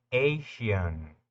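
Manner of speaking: "Asian" said as AY-shun, long A then sh; the ending "Asian" with an English ay and sh; terminación inglesa "Asian" dicha /eɪʃən/; English ation sound. Shown as a demonstration. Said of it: "presta atención cómo se pronuncia".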